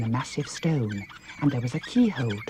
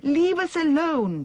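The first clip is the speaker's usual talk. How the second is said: high, urgent call through a keyhole; a frightened girl calling out, high; calling through a door; 14 semitones higher, slower than usual. A narrator's reading. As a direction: shout it through the door to keep them out. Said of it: "Dorothy called through the keyhole".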